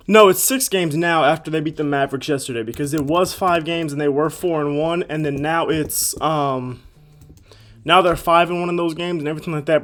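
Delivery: winded after push-ups; breathing hard between words. Real, not acted. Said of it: "Bro, I'm out of breath".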